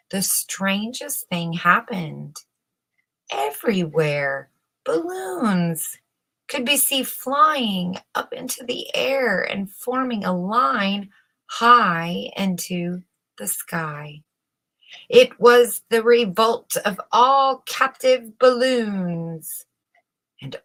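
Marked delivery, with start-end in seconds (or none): none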